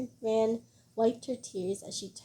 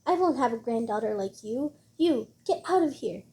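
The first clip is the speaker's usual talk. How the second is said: angry yelling; 3 dB louder than usual. Acted. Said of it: "while yelling".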